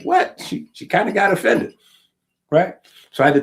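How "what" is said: mock shocked squeal, much higher and louder; shocked what. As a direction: play her shocked, high-pitched what. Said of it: "She was like".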